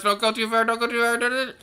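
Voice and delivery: high, tense pleading; anxious pleading. Real, not acted. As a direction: beg it not to roll away. Boulder nearly rolling off.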